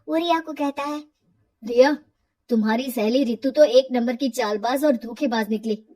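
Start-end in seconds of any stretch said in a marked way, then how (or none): 1.6-5.8 angry. Acted. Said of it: "Narendra को रिया पर गुस्सा आ जाता है".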